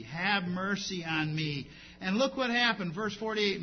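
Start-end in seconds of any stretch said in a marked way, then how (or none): 0.0-1.7 crying for mercy. Retold or imitated. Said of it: "This man here cried out for mercy".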